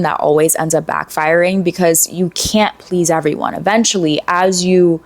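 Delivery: normal talking voice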